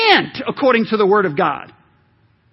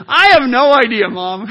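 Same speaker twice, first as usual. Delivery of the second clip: mock crying; 2 semitones higher, 6 dB louder than usual. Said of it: "I said".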